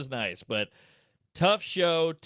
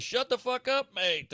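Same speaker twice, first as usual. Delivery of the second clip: much higher, a mock snarl; one drunk punter shouting down another; heckler snapping; 9 semitones higher than usual. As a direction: tell off the other heckler.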